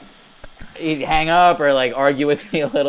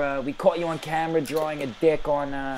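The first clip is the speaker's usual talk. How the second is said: higher, lightly put-on official voice; fake school official; 4 semitones higher than usual. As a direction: pose as a school official on the phone. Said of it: "as Andrew Levitsky".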